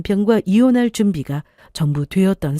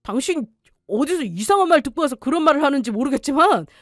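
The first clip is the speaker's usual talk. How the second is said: angry denial; 6 semitones higher than usual. Acted. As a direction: bluster your way out, outraged. Husband denies gambling accusation.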